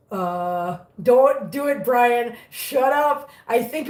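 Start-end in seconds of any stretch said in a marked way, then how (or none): 1.0-2.3 playful warning. Real, not acted. Warning a chatter named Brian.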